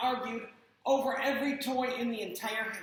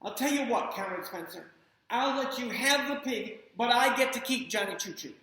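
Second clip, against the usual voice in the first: higher, louder little dealmaker; bargaining child; 4 semitones higher, 4 dB louder than usual. Acted. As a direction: strike a deal like a kid. Spencer bargains with mom.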